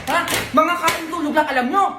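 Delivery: high, sharp nagging scold; scolding mom. Acted. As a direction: nag them like an exhausted mother. Mother scolding lazy family. (galit na sermon ng nanay sa mga tamad)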